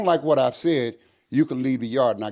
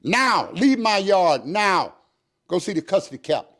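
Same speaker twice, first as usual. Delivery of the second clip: furious order; 4 semitones higher than usual. Retold or imitated. Captain throwing eight officers out, furious.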